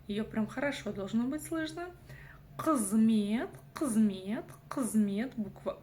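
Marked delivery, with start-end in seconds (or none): 2.6-5.3 «Қызмет» с кратким «ы» после горлового «қ»; почти проглоти «ы» в «қызмет»; короткое «ы». Shown as a demonstration. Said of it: "коротко звучит". («қызмет» чётко, с резким начальным «қ»)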